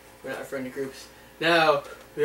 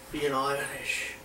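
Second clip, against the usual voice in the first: put-on quiet slow Irish accent; 3 semitones lower, 7 dB quieter, much slower than usual. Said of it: "Oh, I can do it".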